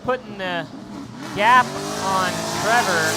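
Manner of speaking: energetic motorsport announcer; live play-by-play. Real, not acted. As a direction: call the action as the cars launch, lifting key words.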